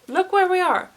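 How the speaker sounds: high, loud dismay at the mirror; shocked. Acted. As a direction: gasp it out, horrified. Same line, louder higher take.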